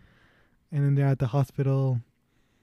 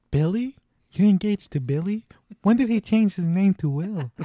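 higher-pitched, rising mock disbelief; incredulous questioning; 6 semitones higher than usual. Man learning of the engagement to Billy, incredulous. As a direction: question it as if baffled, pitch lifted.

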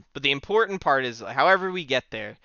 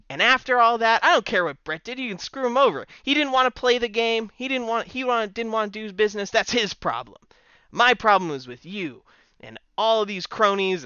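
Owen Hart promo; 7 semitones higher than usual. Retold or imitated. Owen answers Shawn from the ramp, higher heated promo rant. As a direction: rant like a wronged heel cutting a promo. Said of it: "I picture him saying".

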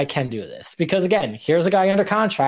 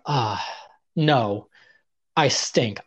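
lower, deflated reply; mock dejection; 4 semitones lower, much slower than usual. Trainee turning down a match, retold dejection. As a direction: act out giving up on yourself.

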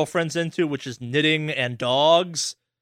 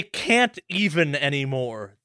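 mock teen slang; slower than usual. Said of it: "as the kids say".

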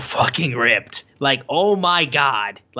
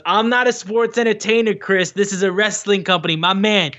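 mock Kingston rant; 5 semitones higher than usual. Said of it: "Kingston goes".

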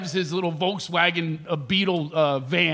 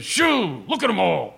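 mock stiff line reading; imitating an overdone, blurted first take; bad amateur actor. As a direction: deliver it like a clueless non-actor. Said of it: "he looks straight ahead".

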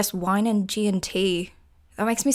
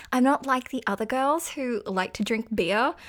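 sarcastic; 4 semitones higher than usual. Pretend. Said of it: "That was sarcasm, by the way".

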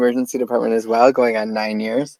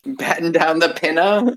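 laughing sailor order; 5 semitones higher than usual. Pretend. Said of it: "remind me of ship names".

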